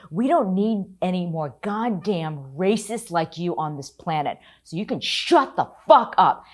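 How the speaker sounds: loud, rising to a shout at the end; angry tirade. Retold or imitated. Reporter telling off racist hecklers, building angry shout. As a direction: tell them off with building fury. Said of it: "I completely lost it".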